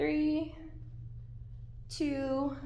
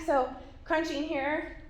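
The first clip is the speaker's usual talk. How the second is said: out of breath; slower than usual. Real, not acted. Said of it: "Ooh, sorry, I'm out of breath".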